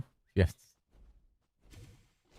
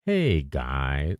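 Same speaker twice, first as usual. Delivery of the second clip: failed Fubgun impression; 5 semitones lower than usual. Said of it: "No, you can't do it".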